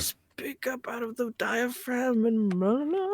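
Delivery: loud, drawn-out mock instruction, rising high; projecting coach quote. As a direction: imitate someone urging you to project. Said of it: "They'd be like".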